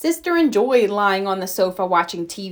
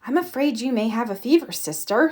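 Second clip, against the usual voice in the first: concerned; 2 semitones higher than usual. Acted.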